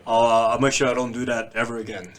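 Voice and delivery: lightly put-on white American guy; mock-apologetic proper guy voice; hint of a polite American guy, amused. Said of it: "Dave Chappelle white guy voice".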